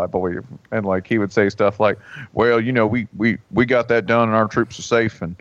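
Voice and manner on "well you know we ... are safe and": Tommy Franks. Retold or imitated. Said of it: "Tommy Franks was from Arkansas".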